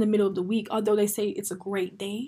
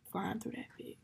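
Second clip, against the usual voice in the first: quieter, to yourself; soft echo; 11 dB quieter than usual. Real, not acted. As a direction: murmur it back softly. Quiet echo of previous line.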